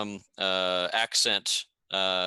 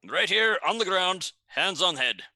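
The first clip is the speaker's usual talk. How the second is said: put-on poor Garundi accent; 4 semitones higher than usual. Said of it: "In a poor Garundi accent".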